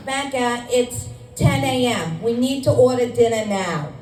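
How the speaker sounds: put-on a light Brooklyn accent, slowed a touch on "it's ten A M"; mom's Brooklyn accent. Comedian quoting her mom in a mild Brooklyn accent. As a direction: imitate a mother's Brooklyn accent, fussing over dinner. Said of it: "That's my mom's Brooklyn accent".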